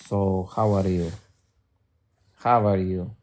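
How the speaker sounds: put-on Russian accent greeting. Shown as a demonstration. Streamer demonstrating for the audience, Russian accent. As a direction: show off a Russian accent in a simple question. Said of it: "talk with a fucking Russian accent".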